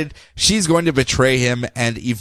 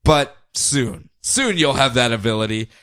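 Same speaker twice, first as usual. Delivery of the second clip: Sinestro; slower than usual. Retold or imitated. Villain promising his captive future power, smug. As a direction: savour the reply with mild smugness. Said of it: "Sinestro smugly, of course, goes".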